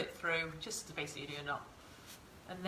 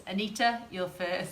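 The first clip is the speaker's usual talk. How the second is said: excited announcement; 7 dB louder than usual. Real, not acted. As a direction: cheer the winner's name out. First viewer answers the quiz.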